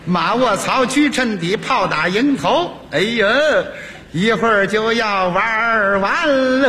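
mock-worried running commentary; snide kibitzing. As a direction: needle the chess player from the sidelines. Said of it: "开始说风凉话".

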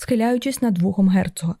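ordinary delivery

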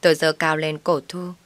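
usual speaking voice

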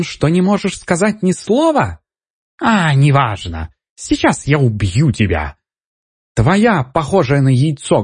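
high, mocking squeaky taunt. A narrator's reading. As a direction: squeak the threats, childish and cruel. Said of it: "писклявым голосом". (писклявый голос, насмешливо)

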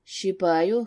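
ordinary delivery

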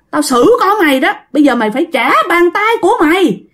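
threatening ghost. Acted. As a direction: issue an ultimatum as a wronged spirit. Angry ghost threatens the uncle.

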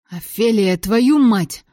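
loud, exasperated scolding; angry acted outburst; cursing. A narrator's reading. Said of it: "ругался он".

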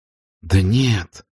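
mild upset cry; exclaiming. A narrator's reading. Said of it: "воскликнула Мелани".

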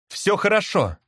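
high reassuring call. A narrator's reading. Brother bird comforts caged sister, calling out. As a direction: cry out to comfort her. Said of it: "крикнул я".

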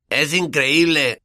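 amazed. Acted. Ron staring at himself in the mirror, slow and amazed. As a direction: stretch out "increíble" in disbelief. Ron marvels at his new face.

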